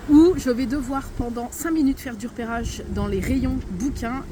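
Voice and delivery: talking outdoors in gusty wind; wind on mic. Real, not acted. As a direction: wind noise over the voice. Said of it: "si vous m'entendez bien avec le vent".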